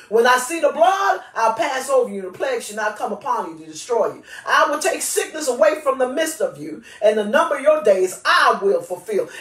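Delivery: declaring the Lord's words with authority, some lines rushed; scripture proclamation. Acted. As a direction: proclaim the promises as God's own voice. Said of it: "I am giving them voice".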